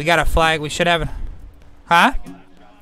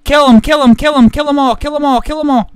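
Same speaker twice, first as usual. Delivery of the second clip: shouting; 3 semitones higher, 5 dB louder than usual. Real, not acted. Urging men in melee.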